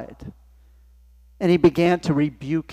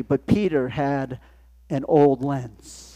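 slow dramatic turn; 2 semitones lower, slower than usual. Real, not acted.

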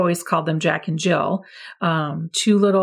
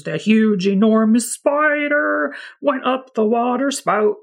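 big spider voice; 4 semitones higher than usual. Shown as a demonstration. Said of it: "you're gonna give a very deep voice".

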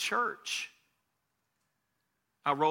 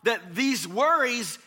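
rising, sung-out preaching over music; preaching build; 5 semitones higher, 5 dB louder than usual. Acted. Pastor lifting the congregation with sung-out preaching. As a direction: carry the congregation up with the melody.

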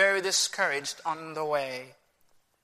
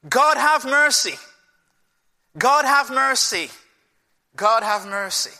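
pleading cry; 3 semitones higher than usual. Acted. Acting Israel crying out for mercy.

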